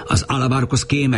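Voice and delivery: magasan, kiáltva: „Az Alabarkosz kéme!”; a tömeg felkiált, a kéme szót kiemelve; kiáltás. Acted. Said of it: "kiáltották". (magas hangú, izgatott kiáltás)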